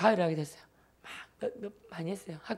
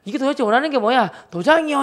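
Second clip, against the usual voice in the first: loud, high-pitched mock bickering; heated comic back-and-forth, voice pushed up; acted exasperated quarrel; 5 semitones higher, 7 dB louder than usual. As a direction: re-enact a mother-son squabble at raised pitch. Acted quarrel over the dishes.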